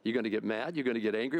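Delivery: a patient God quizzing him; God questioning. Retold or imitated. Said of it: "And God goes".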